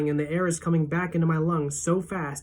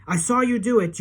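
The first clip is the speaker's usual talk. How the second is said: high, loud shout of I saw you do it; screaming; 7 semitones higher, 5 dB louder than usual. A narrator's reading. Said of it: "keep screaming".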